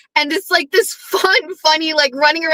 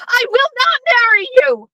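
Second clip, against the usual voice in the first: much higher, shrill-free hammed-up refusal; mock dramatic refusal; 12 semitones higher than usual. Retelling the movie, Meredith turning down Everett in a high mock voice. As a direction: play Meredith refusing him in a high, theatrical voice.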